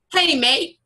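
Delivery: put-on British accent that slips toward Australian; attempted British accent. Host tries an accent on request, shaky British accent landing Australian. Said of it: "I need an accent".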